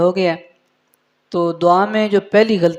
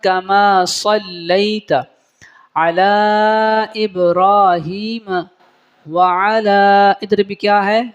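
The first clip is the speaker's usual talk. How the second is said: slow, careful Quranic-style chant; slow recitation; much slower than usual. Acted. Teacher reciting the prayer slowly for students. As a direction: recite each word slowly, measured.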